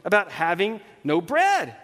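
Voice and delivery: exasperated Jesus. Retold or imitated. Jesus to disciples arguing over bread, acted exasperation. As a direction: scold them in mild disbelief. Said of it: "wanting to pull his hair out".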